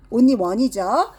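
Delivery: "only one" stretched out very slowly; teacher stresses one vowel to pupils, slowly; slow emphasis. Shown as a demonstration. Very slow, drawn-out "only one".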